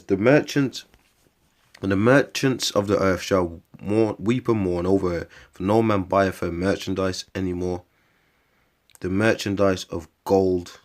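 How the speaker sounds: slow, measured reading aloud; scripture reading. Real, not acted. Preacher reading Revelation to his viewers, measured recitation. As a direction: read out the long list evenly, pausing between phrases.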